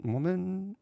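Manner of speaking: high, baffled question; a sudden pitch jump of disbelief at the title; puzzled surprise. Real, not acted. Reading the odd album title.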